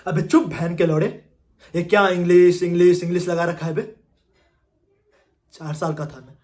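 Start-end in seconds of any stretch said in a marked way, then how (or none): 0.1-3.9 acted angry retort, louder at first; exasperated outburst. Candidate fed up with interviewer's demands for English, exasperated. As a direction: blow up at being nagged.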